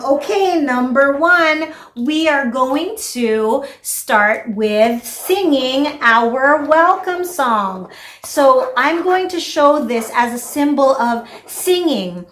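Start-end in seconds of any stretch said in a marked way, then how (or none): 0.1-7.9 sing-song teacher voice. Shown as a demonstration. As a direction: announce it slowly like to a toddler. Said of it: "I'll tell them".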